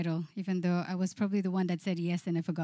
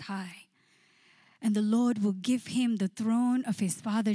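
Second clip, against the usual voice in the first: raised, measured Bible reading; scripture reading. Acted. Pastor reading Luke to the congregation, raised and measured. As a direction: read the angel's words with weight. Reads scripture aloud expressively.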